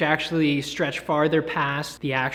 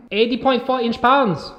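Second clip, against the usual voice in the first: laughing mock spec; 6 semitones higher, 4 dB louder than usual.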